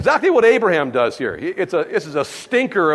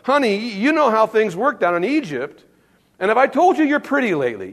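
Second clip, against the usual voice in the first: sweet-talking husband; 5 semitones higher than usual. Retold or imitated. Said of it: "he goes".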